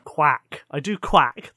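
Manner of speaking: loud quacked like a duck. Pretend. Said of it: "It means you're a duck".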